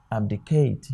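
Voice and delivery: abdicate with weight on CATE; stress on third syllable. Shown as a demonstration. Teacher showing the third word, abdicate stressed on CATE. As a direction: lean on the final CATE in abdicate. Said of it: "the stress is also on this one".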